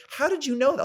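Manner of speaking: girl amazed he guessed, mimicked high; mock amazed girl. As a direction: imitate her astonishment. Voicing the girl's amazement.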